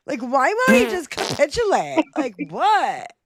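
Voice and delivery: put-on exasperated Valley Girl parody; mock Valley Girl. Parodying demands that Zelensky capitulate, mock Valley Girl. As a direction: act a baffled Valley Girl. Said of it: "turned into a Valley Girl when they speak".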